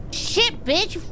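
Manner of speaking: shrieking after a jump scare; jolted, high and panicked; startled scream. Real, not acted. Jump scare in horror game.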